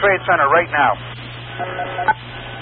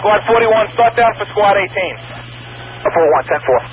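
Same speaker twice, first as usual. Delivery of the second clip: urgent firefighter radio. Real, not acted. Radio calls to squads.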